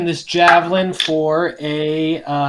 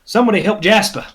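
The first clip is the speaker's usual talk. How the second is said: quick, higher in-character yell; yelled call for help; 6 semitones higher, 4 dB louder, much faster than usual. Acted. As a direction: call out urgently to your party. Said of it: "is gonna yell out".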